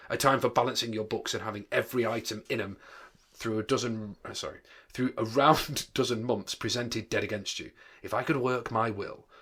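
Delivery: a touch of indignant grumbling; mild indignation. Acted. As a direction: complain with light indignation. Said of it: "said Scrooge indignantly".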